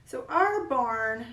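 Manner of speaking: "our" drawn out as a long country "ar"; slow country drawl on "our barn"; country accent. Shown as a demonstration. Painting teacher showing her country "our". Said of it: "there's our country accent coming out".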